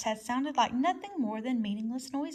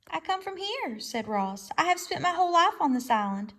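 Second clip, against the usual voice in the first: robot voice; 6 semitones higher than usual. Acted. Robot explains.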